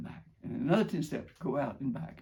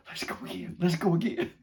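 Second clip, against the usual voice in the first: eager plea; 4 semitones higher than usual. Retold or imitated. Mother delighted after ride.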